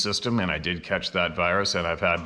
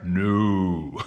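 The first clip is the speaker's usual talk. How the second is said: laughing no; 3 dB louder than usual. Real, not acted. Mocking the flight rule, laughing.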